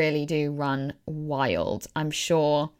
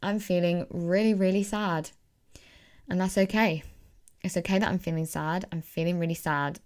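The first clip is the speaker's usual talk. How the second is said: gentle self-talk. Shown as a demonstration. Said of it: "and just say".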